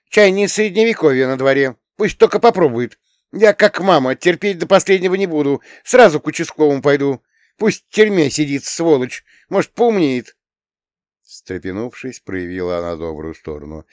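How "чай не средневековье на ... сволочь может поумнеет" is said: put-on high, loud indignant girl; teen girl Tanya. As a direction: voice an upset young girl complaining. Tanya's voice held. (высокий громкий голос возмущённой девочки-подростка)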